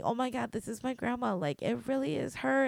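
high-pitched, overwhelmed disbelief; mock crying, voice lifted high; retold tearful realization. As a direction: pitch it up as if overcome at recognizing someone. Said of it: "crying and crying and crying".

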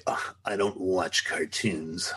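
slow, dismissive whiny drawl; mocking whiny scoff. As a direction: sneer it like a snob. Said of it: "when people say".

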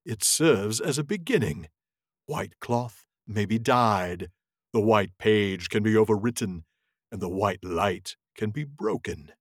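a touch of a haughty wizard, slowed down; lightly voiced Saruman. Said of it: "a Saruman voice here".

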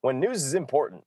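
over-enunciated anchor delivery; news anchor voice. Shown as a demonstration. Host showing his cohost how newsmen talk, over-enunciated. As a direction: enunciate every word like the evening news. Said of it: "you have to talk like this".

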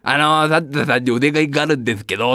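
put-on low, polite little kid; a kid making a request; child voice. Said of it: "って言うわけじゃん、子供は". (子供のお願い口調)

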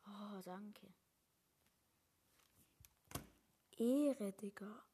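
whispering. Real, not acted. Relieved whispering after rescue.

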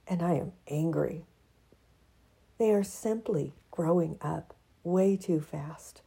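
expressive reading of her own essay; reading her piece. Acted. To her audience, reading her written piece aloud. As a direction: read it like spoken-word prose.

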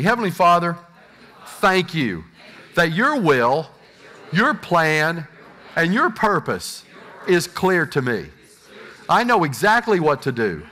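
measured prayer, phrase by phrase for echo; led prayer. Acted. Pastor leads the congregation in a repeat-after-me prayer.

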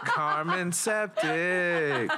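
very slow, laughing through it. Pretend. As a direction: say it while cracking up. Joke name, laughing.

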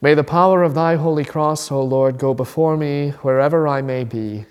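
steady, measured prayer reading; solemn spoken prayer. Acted. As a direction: pray it aloud with reverence. Reads a formal morning prayer.

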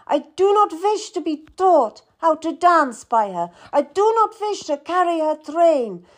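put-on high, tight voice of a hurt young queen; upset queen near tears. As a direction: protest through rising tears. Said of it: "She burst into tumultuous crying".

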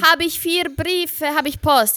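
put-on slow, high Italian-accented German; stretched Italian-accented impression; Giovanni. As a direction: imitate an Italian speaking halting German. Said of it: "hat er gesagt".

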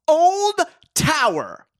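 loud, slow, strained final gasp; hammed-up dying breath; dying last words.

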